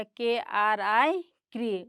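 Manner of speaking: के आर आई spelled slowly, then क्री; slow spelling demo. Shown as a demonstration. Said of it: "आर आई से लिखते हैं". (धीरे-धीरे अक्षर बोलकर क्री)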